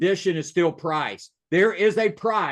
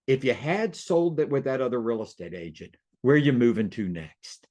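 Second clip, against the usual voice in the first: calm question, dropping lower at the end; settled, unpushy sales question; 5 semitones lower than usual. Shown as a demonstration. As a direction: ask it gently, letting the pitch sink. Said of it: "see how my voice calmed down?".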